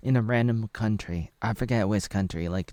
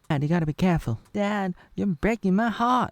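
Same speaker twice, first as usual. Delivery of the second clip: put-on pleading girl; 9 semitones higher, 4 dB louder than usual. Daughter pleads.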